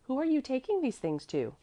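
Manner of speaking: put-on high-pitched child's question; curious child. A narrator's reading. Mäzli inspects the basket, high curious child voice.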